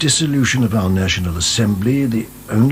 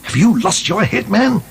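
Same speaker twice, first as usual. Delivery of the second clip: higher, indignant outburst; angry; 5 semitones higher than usual. Acted. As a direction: scold him, outraged. Governor furious at his officer.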